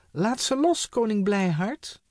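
high, loud urgent call upward. A narrator's reading. Trixie calling up to the king, loud and high. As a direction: shout up to the floating king. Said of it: "riep Trixie".

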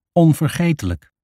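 echoed word. A narrator's reading. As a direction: repeat it up high, in character.

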